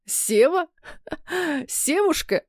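high, stuttering with laughter; mocking laughter. A narrator's reading. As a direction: tease her through hysterical laughing. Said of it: "заикаясь от смеха, поддразнил Илья".

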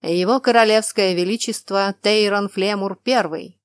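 loud herald announcement; town crier. Acted. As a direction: announce the king loudly. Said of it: "громкий голос глашатай объявил".

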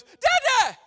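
put-on high, loud yelp of a small boy; child's cry. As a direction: cry out like a startled toddler. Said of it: "and he goes".

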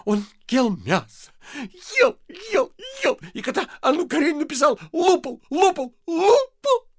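wife sobbing at her husband. Acted. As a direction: wail through sobs.

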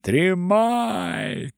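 a reedy man's cry; thin tenor. Acted. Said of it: "второй тонкий тенор".

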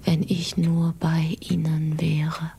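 whispered to herself in dread; unvoiced worried whisper; anxious whisper. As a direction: breathe the words out, afraid for them. Anxious mother alone, whispering.

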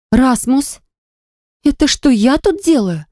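high, strained near-shout; breaking into a shout. A narrator's reading. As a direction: snap back, close to hysteria. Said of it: "сорвалась на крик".

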